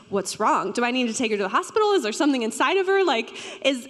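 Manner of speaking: fast, rising panicky questions; anxious worry. Retold or imitated. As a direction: race through the worries like a scared new mom. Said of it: "very fearful and anxious".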